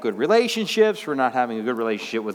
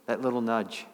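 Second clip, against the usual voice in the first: softer repeat; 5 semitones lower, 5 dB quieter than usual. Shown as a demonstration. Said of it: "You know what I mean?".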